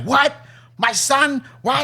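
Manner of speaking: high disbelieving gasp of a question; shocked dad. Retold or imitated. Dad hears his son stole cars, imitated high shock. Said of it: "my dad's like".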